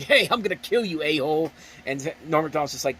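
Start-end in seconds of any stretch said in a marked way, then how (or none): 0.0-1.5 mild mock yell, pitched up; retold scream. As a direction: imitate an angry screamer, only half-loud. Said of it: "you hear this guy screaming".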